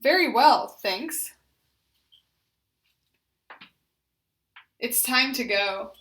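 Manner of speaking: loud, deliberate greeting; loud intentional voice. Shown as a demonstration. Therapist modelling functional phrases for repetition, loud. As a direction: project it clearly. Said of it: "loud and intentional voice".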